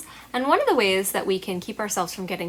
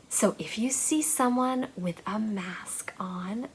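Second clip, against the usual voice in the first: whisper; 6 dB quieter than usual. Acted. Reassuring kids about masks.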